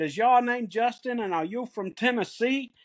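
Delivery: lightly imitated Philadelphia accent. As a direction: put on a Philadelphia local's accent, asking. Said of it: "in this thick Philadelphia accent".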